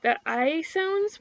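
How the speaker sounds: "I" held long with a spread mouth; wide-mouthed I. Shown as a demonstration. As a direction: stretch the "I" wide, high and slow. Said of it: "they have the more, like, wide mouth".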